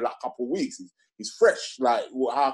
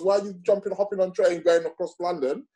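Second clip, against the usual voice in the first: mock incredulous friend; 7 semitones higher than usual. Friend scolds the long journey.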